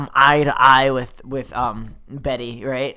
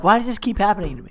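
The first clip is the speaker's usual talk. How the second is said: fast, laughing self-pity; mock lament; 4 semitones higher, faster than usual. Jilted rescuer wondering at his luck, mock-exasperated. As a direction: rattle it off as a comic complaint.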